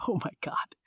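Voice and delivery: whispered oh my God; stunned whisper; whispered disbelief. Retold or imitated. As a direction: breathe it out unvoiced in disbelief. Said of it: "I was like".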